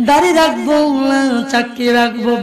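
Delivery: half-sung preaching with long drawn-out phrase endings; intoned religious narration; melodic sermon storytelling. A narrator's reading. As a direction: chant the story to a congregation, stretching key words.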